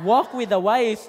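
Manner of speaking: loud, rising exhortation to the crowd; preaching shout. Real, not acted. Preacher urges the congregation to walk with the wise: loud shout. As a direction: call it out to the whole church.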